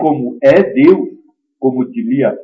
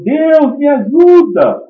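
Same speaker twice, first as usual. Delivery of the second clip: high-pitched acted shout for help; retold cry for help; 12 semitones higher, 5 dB louder, slower than usual. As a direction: call up to God like the stranded climber, drawn out at the end. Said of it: "Aí ele gritou".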